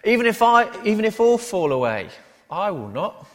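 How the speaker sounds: loud, high-pitched proclamation easing toward the end; declaring. Acted. Peter answering Jesus before the other disciples, loudly declaring. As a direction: declare it boldly, starting at full volume. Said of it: "Peter declares".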